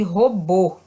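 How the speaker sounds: "robô" with a closed final ô; stressed closed last vowel in "robô". Shown as a demonstration. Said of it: "Ela dá o som fechado".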